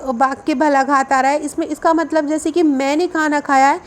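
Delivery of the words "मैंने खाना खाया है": मैंने weighted above the rest of the sentence; stress on मैंने. Shown as a demonstration. Teacher explaining who ate, with stress on मैंने. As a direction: stress मैंने to single out the doer. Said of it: "इस बात को बल लगाकर बोल रहे हैं".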